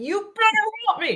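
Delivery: put-on shrill, very high screaming. Joking about what lobbyists do: imitating someone screaming. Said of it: "they're screaming at the top of the lungs".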